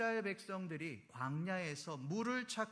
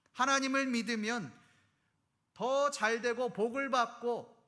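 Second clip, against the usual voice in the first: louder, aggrieved protest voiced as a believer; bitter complaint to God; 2 semitones higher, 5 dB louder than usual. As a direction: plead with God, hurt and indignant. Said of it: "그런 원망입니다". (하나님께 따지는 억울한 원망의 목소리)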